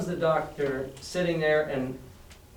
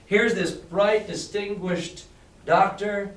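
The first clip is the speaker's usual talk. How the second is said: pirate captain sneering. Acted. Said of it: "And he says".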